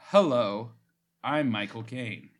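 lightly voiced Cockney Michael Caine; slow, lightly put-on Cockney accent; Michael Caine impression. Shown as a demonstration. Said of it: "I have to do it in an accent".

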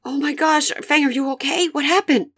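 high-pitched, worried questioning; alarmed concern. Acted. Finding Fang bleeding in the corner, alarmed concern. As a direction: fret over an injured friend.

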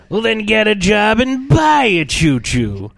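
a hint of a stern dad; gruff father voice. Harsh father voiced in retelling.

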